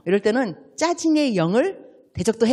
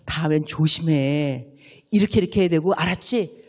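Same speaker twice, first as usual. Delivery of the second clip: lecturing friend; 5 semitones lower than usual. Retold or imitated. Person with teaching gift lecturing.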